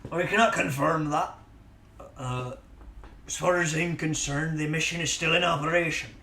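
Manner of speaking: put-on pirate accent drifting in and out; accent slipping all over; wobbly accent. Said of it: "this accent is going all over the place".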